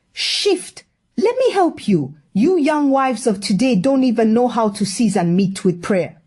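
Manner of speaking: bossy auntie voice. Acted. Auntie pushes Uju from stove.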